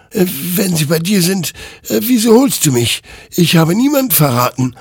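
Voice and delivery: defending himself. Acted. Hektor protests his innocence to the rider, loud and indignant. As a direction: fight off the accusation. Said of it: "wehrte sich Hektor".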